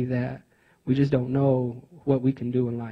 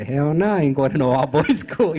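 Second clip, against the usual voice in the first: amused mock refusal. Brother refusing the all-boys school, laughing retold refusal. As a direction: laugh breaking into the last words.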